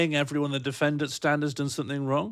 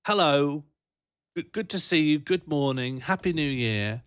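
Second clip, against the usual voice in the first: cheery mock greeting; 2 semitones higher than usual. Imitating own greetings.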